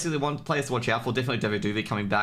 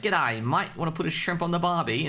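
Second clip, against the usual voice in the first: hammed-up Australian accent, pitched higher; broad Aussie cliché; 7 semitones higher than usual. Australian caster mocks his own casting, broad Aussie accent. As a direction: play the stereotype Aussie bloke to the hilt. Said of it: "And mine's like".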